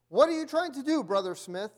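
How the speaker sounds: high, loud alarmed protest; shocked protest. A narrator's reading. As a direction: cry it out as a startled young preacher. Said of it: "the young preacher protested".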